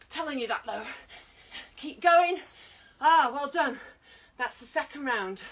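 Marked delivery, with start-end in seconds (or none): 1.8-2.4 loud push to keep going; coach's shout. Real, not acted. Coach shouting to her class to keep going. 3.0-3.8 loud cheer. Real, not acted. Coach cheering end of round.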